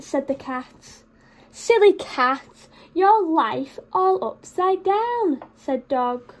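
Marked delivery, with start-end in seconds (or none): 1.5-5.4 mocking dog. Dog mocks cat.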